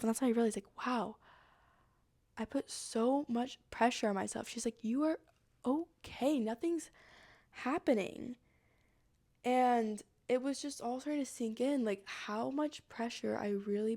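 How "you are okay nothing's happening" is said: soft, spaced-out reassurance; reassuring. Retold or imitated. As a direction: soothe gently, pausing between words. Monk reassures her.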